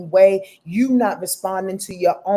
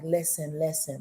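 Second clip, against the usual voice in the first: Libra energy voice; 6 semitones lower, 9 dB quieter than usual. Pretend. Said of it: "That moon in Libra is like".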